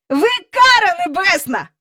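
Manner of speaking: put-on high, innocent boyish exclamation; friendly exclamation. A narrator's reading. Michael greeting Miss Andrew, innocently friendly. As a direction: blurt it out cheerily. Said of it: "Він говорив якнайпривітніше".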